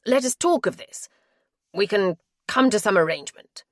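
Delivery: he begs her to stay, pressing hard; begging husband. Acted. Narrator voices the begging husband.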